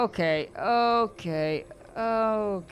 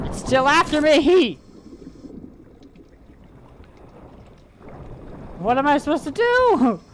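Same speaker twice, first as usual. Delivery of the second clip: higher, louder frantic cries; panicked yell; 9 semitones higher, 6 dB louder than usual. Real, not acted. Streamer fleeing the thing chasing him, frantic high yell. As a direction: yell it out while running for your life.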